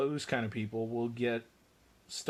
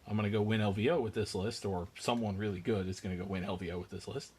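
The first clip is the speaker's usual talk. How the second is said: saying it on one held breath; holding breath; 3 semitones lower, faster than usual. Real, not acted. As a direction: rush the line before breathing out. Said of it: "just holding my breath to do that line real quick".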